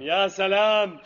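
sarcastic. Acted. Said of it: "repeats phrase differently".

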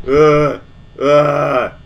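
loud, high frightened cries; real startled shouting; panicked yell. Real, not acted. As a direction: yell for it to stop. Jump scare in horror game.

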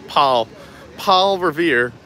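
laughing retry of Boston Paul; a sheepish Boston accent attempt; Boston accent try. Shown as a demonstration. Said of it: "what accent I'm doing".

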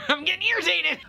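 high, strained cry of irritation; high-pitched exasperation; irritated outburst. Real, not acted. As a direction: yell it out, high and fed up. Outburst over lawnmower noise.

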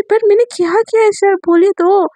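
shocked protest. Acted. Shocked woman protesting to father.

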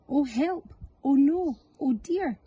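high gasping dismay; storyteller's mock panic; dramatic alarm. A narrator's reading. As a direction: gasp and cry out in mock alarm. Narrator's alarm at vanishing eggs.

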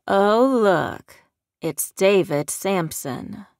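mocking southern drawl, stretched slow; Southern accent, sneering at him; taunting southern accent. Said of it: "a man with a southern accent taunted".

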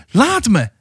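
high-pitched cry of resistance; shriek. A narrator's reading. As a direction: shriek to be let go. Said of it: "gilde Hasse weer". (hoog gegild)

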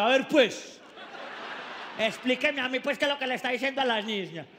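put-on guard confronting the young man; stern security guard. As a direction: demand an explanation. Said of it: "aparece el vigilante".

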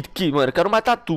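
ordinary talk

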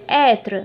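Être with an open "eh"; slightly open ê. Shown as a demonstration. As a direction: open up the first vowel of Être. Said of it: "مفتوحة شوية". (Être بحركة مفتوحة شوية)

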